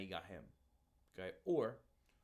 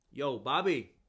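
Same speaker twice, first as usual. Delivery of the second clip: calling out; 4 semitones higher, 14 dB louder, slower than usual. Acted. Calling stranger by wrong name.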